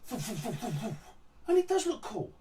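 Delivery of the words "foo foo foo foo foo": soft breathy whoosh noises for flying stars; imitated whooshing stars. Throwing stars flying past, soft whooshing imitation. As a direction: mouth the stars whizzing past, softly. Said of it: "these three or four stars go".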